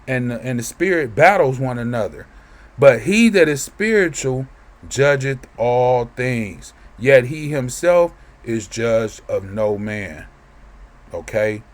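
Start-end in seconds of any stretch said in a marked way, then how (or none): 2.8-10.3 slow, solemn reading of the verse; scripture reading. Acted. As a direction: lay out each word of scripture. Reads the verse aloud.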